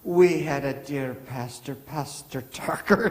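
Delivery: high, slow put-on Scottish lilt; imitating Scottish caller. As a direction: gush like a fond old Scottish woman. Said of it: "And she said".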